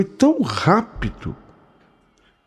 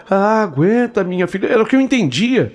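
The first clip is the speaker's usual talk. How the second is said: put-on nervous old woman; 4 semitones higher than usual.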